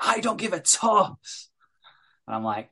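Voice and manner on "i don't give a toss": higher, slow, put-on dismissive voice; gruff dismissive dad. Dad brushing off his daughter, mock dismissive. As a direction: brush it off, lightly mocking. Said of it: "but he's like".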